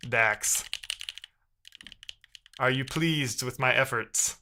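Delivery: a light, slow mock-servant voice; servile minion voice. Mocking Dax with a slow, lightly servile minion voice. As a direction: play the humble servant, slowly. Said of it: "I don't know why I'm talking like this".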